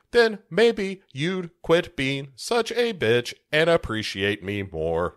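lightly voiced deliberate robot threat; Megan. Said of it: "And Megan says".

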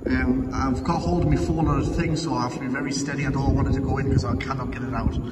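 echoing inside a stone tower; big hall echo. Real, not acted. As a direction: voice bouncing off bare walls. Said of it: "Sorry for the echoing".

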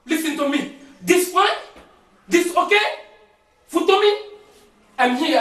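halting broken English on the phone; man calling for help in broken English. Acted. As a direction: plead down the phone in shaky English.

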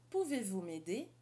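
"Pouvez-vous m'aider?" said in French; French phrase. Shown as a demonstration. Teacher modelling a French request. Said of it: "essa frase é".

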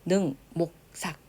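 능, 목, 삭 said one by one; demonstrated pronunciation. Shown as a demonstration. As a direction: isolate each syllable of 능, 목, 삭. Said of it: "이렇게".

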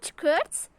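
mock shutter click; camera click sound. Shown as a demonstration. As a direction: imitate the click of a phone camera. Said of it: "Böyle şekilde". (fotoğraf çekme sesi taklidi)

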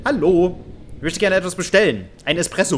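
lightly hammed-up call for service; playful customer. Playfully calls for service at bell.

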